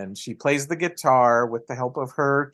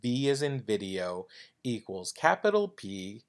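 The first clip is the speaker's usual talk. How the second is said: letter by letter, softer; spelling it out; 6 dB quieter than usual. Shown as a demonstration. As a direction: read each character out carefully. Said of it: "to tell you the U R L is".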